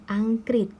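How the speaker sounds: "อังกฤษ" as ang-krit, short i; model reading. Shown as a demonstration. Teacher summing up for pupils, careful pronunciation. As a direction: say "อังกฤษ" clearly in two syllables. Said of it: "ก็จะอ่านว่า".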